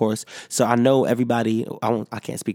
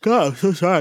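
through a yawn; 7 semitones higher than usual. Real, not acted. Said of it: "I keep yawning".

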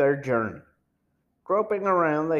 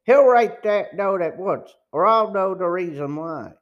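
louder, higher furious threat; angry shout; 5 semitones higher, 5 dB louder than usual. A narrator's reading. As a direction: bark the threat at him. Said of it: "a man said angrily".

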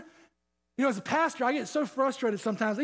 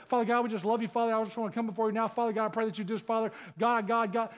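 mock clichéd prayer; 3 semitones lower, faster than usual. Pastor imitating the average Christian praying, mildly mocking cliché. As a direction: lightly imitate a rambling churchgoer at prayer. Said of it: "how dumb the average Christian's prayer sounds".

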